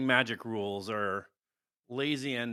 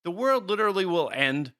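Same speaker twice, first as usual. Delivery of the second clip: mock dramatic; 7 semitones higher, 5 dB louder than usual.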